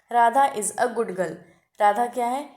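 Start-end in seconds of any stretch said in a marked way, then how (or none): 0.1-1.3 slow, clear example sentence, word by word; slow dictation. Shown as a demonstration. Teacher slowly dictating the example sentence to students. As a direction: read the example slowly so the class can follow. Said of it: "जैसे positive degree में आपको example दे दिया".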